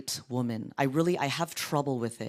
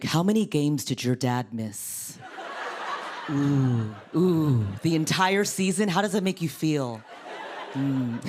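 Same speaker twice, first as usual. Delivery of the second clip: mock dirty talk. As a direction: probe for feelings as if talking dirty. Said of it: "my dirty talk sounds different these days".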